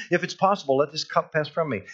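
a praying man's urgent appeal; pleading prayer. Acted. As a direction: act out begging to be spared. Re-voices Jesus's anguished prayer.

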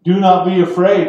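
angel announcement. Acted. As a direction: call it out as an angel from the sky. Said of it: "is what they say".

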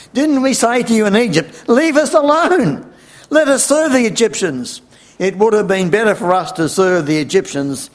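high-pitched, loud outcry, easing slightly at the end; indignant protest. Acted. The Israelites reproaching Moses at the Red Sea, indignant outcry.

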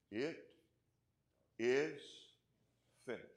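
slow, one word at a time; deliberate retold cry from the cross; solemn cry. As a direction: proclaim it with long pauses between words. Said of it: "He cried from the cross".

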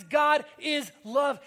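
slow, loud, shouted declaration; proclaimed. Acted. Preacher quoting First John to the church, slow loud proclamation. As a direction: thunder out the verse word by word.

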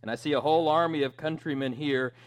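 put-on rally the troops like Braveheart, but no Scottish accent; William Wallace rallying speech. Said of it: "I'm trying to not do the accent".

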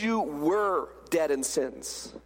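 slow, low line leaning on "were"; "were" held and set apart; stress on were. Shown as a demonstration. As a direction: draw out "were" to mark the past. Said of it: "Notice the past tense".

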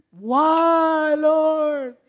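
high, loud mock wail at the Lord. Preacher mocking his own despair to God, high loud wail. Wailing to God after eating.

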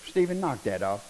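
a dad stopping his son without yelling; calm, unraised command. Retold or imitated. Father quietly telling son to stop, calm low command. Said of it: "I didn't yell it".

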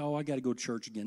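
fast, sour "Oh, I gotta go to church again"; mock whine. Mocking a reluctant churchgoer's fast whine. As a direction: grumble it like a bored churchgoer. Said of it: "I get to go to".

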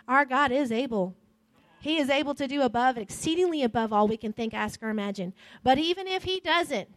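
fast, rising sermon delivery that climbs in force; fervent altar-call preaching; preaching at full force. Acted. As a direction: drive it home to the congregation. Preaching to congregation, building.

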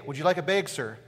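imitated northern clerk, bag said as "beg"; northern accent. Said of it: "they were saying big, like B E G".

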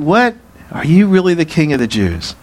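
incredulous, mocking question; mock astonishment, jumping high on the first word; sarcastic. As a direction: question the claim with acted scorn. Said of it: "He's saying this, by the way, sarcastically".

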